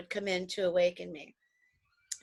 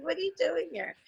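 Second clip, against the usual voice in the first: mock surprise; 8 semitones higher, 4 dB quieter than usual. Addressing sounds in background.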